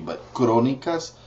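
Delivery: Crónicas with a half-rolled R; teacher models correct form. Shown as a demonstration. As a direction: tap the R in Crónicas. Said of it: "halfway rolling your R".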